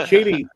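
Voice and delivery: first syllable of Cheaty rhymes with "see"; Cheaty said as CHEE-dee. Shown as a demonstration. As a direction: say Cheaty with a long "ee". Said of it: "he said it's Cheaty".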